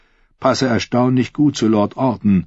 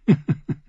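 amused chuckle; 8 semitones higher than usual. Acted. Queen laughs mid-question.

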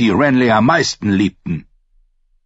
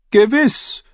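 lightly; 3 dB louder than usual. A narrator's reading. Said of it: "erklärte Lord Florent leichthin".

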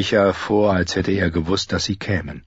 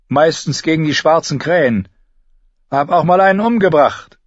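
higher, blunt teasing voice; wildling woman mocking the staring boy; rough wildling woman; 4 semitones higher than usual. A narrator's reading. Bran and Osha trade lines.

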